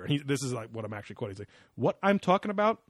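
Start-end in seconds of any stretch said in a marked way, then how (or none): 1.8-2.8 higher-pitched smug mimicry; mock a man thrilled with his own theory; hubristic and smug. Host mimicking the show's expert, hubristic and smug. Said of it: "all kinda, like, hubristic and smug".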